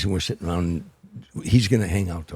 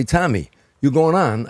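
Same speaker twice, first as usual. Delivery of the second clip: a light impression of a classic crooner, slow and louder; imitating an old crooner; 7 semitones higher, 6 dB louder, slower than usual. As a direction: drawl it out slow like an old crooner backstage. A crooner voiced before a show.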